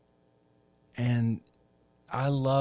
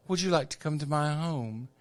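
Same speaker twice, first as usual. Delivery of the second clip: faux British accent; 4 semitones higher, faster than usual. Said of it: "sort of a faux British accent".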